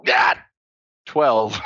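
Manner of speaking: frustrated shout. Real, not acted. Reacting to a bad roll.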